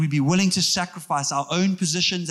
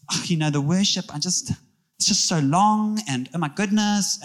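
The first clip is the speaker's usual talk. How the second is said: whiny churchgoer. Retold or imitated. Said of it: "Now we got Christians who are like".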